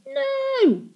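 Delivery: loud, high cry of disbelief; anguished high "no". A narrator's reading. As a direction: cry out in horror, pitch leaping. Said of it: "cried the girl".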